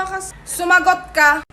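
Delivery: slow, drawn-out scold; mother mimicking the child with a slow scold. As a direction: spell out the order slowly.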